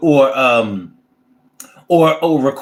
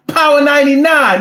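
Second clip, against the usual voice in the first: raised, louder station shout-out; excited radio caller; 4 semitones higher, 4 dB louder than usual. Retold or imitated. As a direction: call out the station name like an on-air caller. Caller shouting station name on air.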